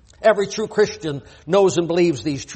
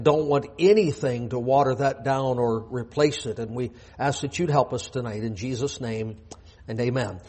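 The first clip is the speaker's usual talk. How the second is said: lower-pitched, earnest pulpit prayer; public prayer; 4 semitones lower than usual. Real, not acted. Pastor praying for help before his sermon, lowered prayer voice. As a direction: pray in a subdued, low voice, easing down to the amen.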